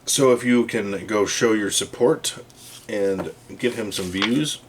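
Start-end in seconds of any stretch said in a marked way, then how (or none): 2.9-4.6 talking through hiccups; hiccuping mid-sentence. Real, not acted. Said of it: "I got the hiccups all of a sudden".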